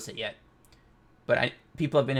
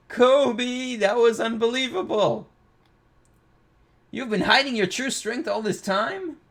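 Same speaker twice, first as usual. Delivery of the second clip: excited; 9 semitones higher than usual. Acted. Reading an excited character's line.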